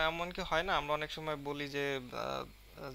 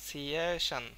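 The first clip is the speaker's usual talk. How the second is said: সিয়েশন with stressed, drawn সিয়ে; long সিয়ে, quick শন; slower than usual. Shown as a demonstration. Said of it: "শান যখন বলছি তখনই কিন্তু খুব দ্রুত". (সিয়েশন-এ সিয়ে টেনে, শন দ্রুত)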